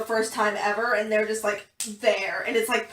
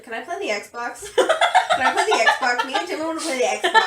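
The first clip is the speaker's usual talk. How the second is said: mock whiny little-brother plea, louder and higher; whiny kid begging; 4 semitones higher, 9 dB louder than usual. Imitating Taehyung pestering to play the Xbox, mock whine.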